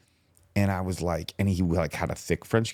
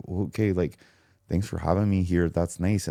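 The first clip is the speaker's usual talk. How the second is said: put-on lightly tried-out Canadian accent, a little low; tentative Canadian accent; 3 semitones lower than usual. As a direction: feel your way into a mild Canadian accent. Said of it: "What's my Canadian kinda sound like?".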